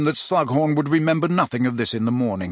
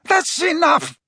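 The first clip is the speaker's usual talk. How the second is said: high, pleading, slowed outburst; sudden upset old man; 4 dB louder, slower than usual. A narrator's reading. Slughorn begging Harry to stop, high and pleading. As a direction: cut him off, begging him to stop. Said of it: "said Slughorn suddenly, raising a shaking hand".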